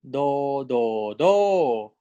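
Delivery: teacher drilling the rising tone; second tone demo. Shown as a demonstration. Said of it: "So it's 第二声".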